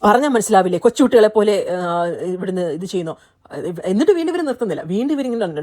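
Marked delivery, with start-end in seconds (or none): 0.0-1.7 louder mock scolding of the housemates; Bigg Boss angry. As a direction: imitate a stern scolding like Bigg Boss, mildly. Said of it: "ദേഷ്യമുള്ള സൗണ്ടൊക്കെ വന്നു". (ബിഗ് ബോസിന്റെ ദേഷ്യം അനുകരിച്ച് ഉച്ചത്തിൽ ശാസന)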